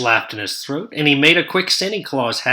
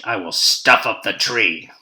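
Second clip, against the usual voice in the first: grinning Grinch; 3 semitones lower, 5 dB louder than usual. Acted. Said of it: "grinned the Grinch".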